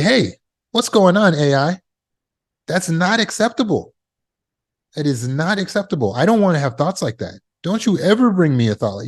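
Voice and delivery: indignant telling-off, starting high and staying emphatic; mildly acted scolding, putting it firmly in its place; admonishing. Shown as a demonstration. Speaker telling off the subconscious mind like an AI, admonishing. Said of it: "I'm admonishing the subconscious mind".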